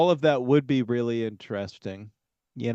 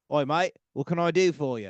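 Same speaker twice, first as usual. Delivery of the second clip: put-on British accent; 3 semitones higher than usual. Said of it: "the only British accent you can do".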